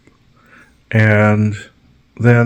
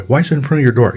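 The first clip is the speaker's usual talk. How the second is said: high, louder accusing neighbor; higher accusing neighbor; mock neighbor accusation; 6 semitones higher, 4 dB louder, faster than usual. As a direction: accuse in a raised pitch.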